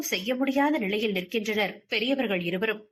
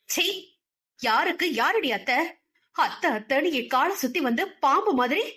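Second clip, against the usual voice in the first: sneering scold, higher toward the end; scornful aunt lashing out; contemptuous anger; 5 semitones higher than usual. Acted. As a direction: spit the words at her niece. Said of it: "பெரியம்மாவின் கோபத்தை".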